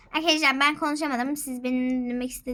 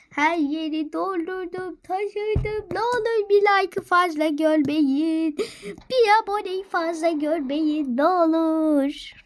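begging; 4 semitones higher, 3 dB louder, slower than usual. Acted. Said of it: "çok dilendim".

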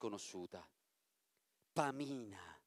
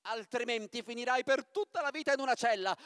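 put-on much higher, commanding old witch; witch's command; 5 semitones higher, 4 dB louder than usual. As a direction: threaten him, sharp and shrill-pitched. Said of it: "la strega esclamò". (strega che ordina, voce molto acuta)

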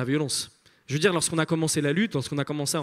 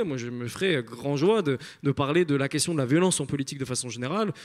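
calm and composed. Retold or imitated. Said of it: "très posément".

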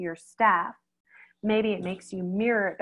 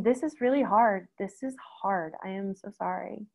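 sympathetic. Shown as a demonstration. Vet to worried client, gently sympathetic. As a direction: comfort them as you say it. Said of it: "sometimes just saying".

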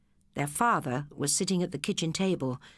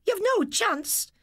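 high, slow angry retort; angrily; slower than usual. A narrator's reading. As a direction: cut him down, furious. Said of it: "she replied angrily".

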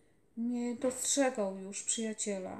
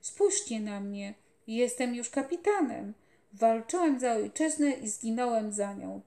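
loud, urgent feverish raving; a sick boy shouting in delirium; feverish delirious boy; 7 dB louder than usual. A narrator's reading. Dying boy calls out to the general in fever, loud raving.

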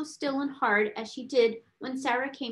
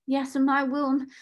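meek, raised-pitch assent; trembling; 4 semitones higher than usual. A narrator's reading. Scullery maid obeying the headmistress, trembling. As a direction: answer timidly, pitch lifted. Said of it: "she trembled".

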